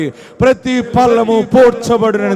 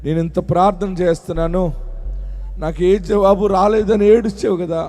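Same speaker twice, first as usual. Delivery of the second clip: low, much softer prayerful preaching; hushed prayer; 7 semitones lower, 6 dB quieter than usual. Real, not acted. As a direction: drop into a quiet prayer voice. Soft prayerful passage. (మెల్లగా, తక్కువ స్వరంతో ప్రార్థన)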